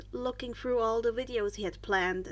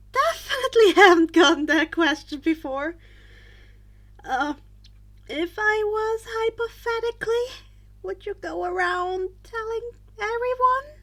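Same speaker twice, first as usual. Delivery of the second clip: Izuku sheepish; 8 semitones higher, 9 dB louder than usual. A narrator's reading. Izuku voiced, awkward laugh.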